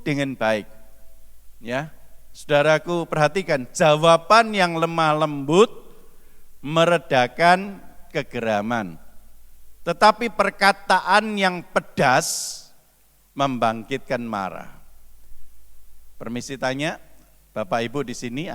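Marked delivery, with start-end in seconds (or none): 3.7-14.7 slow, measured reading of a holy verse; solemn scripture reading. Acted. Preacher reading the proverb to the congregation, slow and measured. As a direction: read the verse slowly and deliberately.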